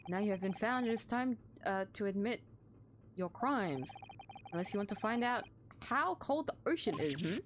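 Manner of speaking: stern accuser. Acted. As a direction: talk down to a suspect you dragged out.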